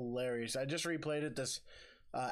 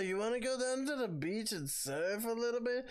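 put-on higher, drawn-out California surfer accent; Californian surfer bro; 6 semitones higher, slower than usual. Showing co-host how Californians talk, mock slow California accent. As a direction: stretch it out like a chilled Californian bro. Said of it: "they usually talk like this".

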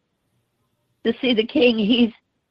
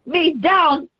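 preached Jesus, straining then crying out; Jesus on the cross. Acted. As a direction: shout through the weight of the cross.

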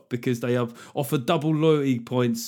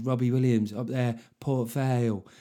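put-on Stoke accent. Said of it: "It's more like the Stoke accent".

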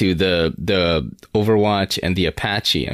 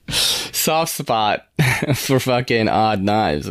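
laughing; much slower than usual. Real, not acted.

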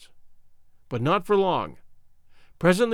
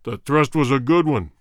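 cruel king voice; 4 semitones lower, 4 dB louder than usual. Acted. King's cold verdict.

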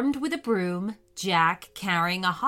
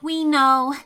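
louder, calling up carefully; loud as she dared; 5 semitones higher, 8 dB louder than usual. Acted. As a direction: call up as loud as she dares. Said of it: "as loudly as she dared".

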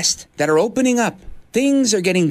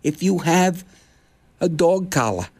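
talking to a stray dog. Retold or imitated. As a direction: talk down to him like he's a lost dog. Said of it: "This is how I talk to a stray dog".

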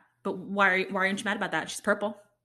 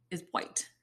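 whisper; 5 semitones lower, 8 dB quieter than usual. Real, not acted. Whispered punchline on race.

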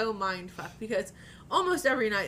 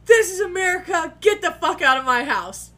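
loud, raised-pitch mock outrage; imitated yelling; 8 semitones higher, 9 dB louder than usual. Husband yelling at cops and paramedics, imitated outraged shout. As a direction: yell it like you're throwing intruders out. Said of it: "and he yells".

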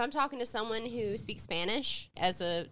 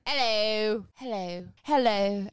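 put-on British accent; slower than usual. Shown as a demonstration. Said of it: "I'm about to do accent".

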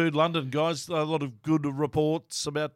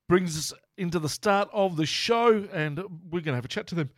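hiccups. Real, not acted. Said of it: "Excuse my hiccups there".

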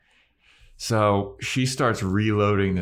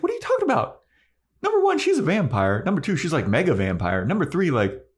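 high, exasperated Spike voice; mock-indignant vampire rant, pitched way up; a high, hammed-up protest; Spike arguing; 8 semitones higher, faster than usual.

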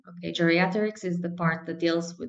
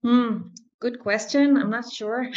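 thinking hmm; 5 semitones higher, 3 dB louder than usual. Real, not acted. Pondering an interview question.

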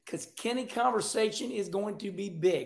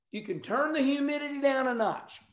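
laughing; 5 semitones higher than usual. Real, not acted. Laugh heard on line.

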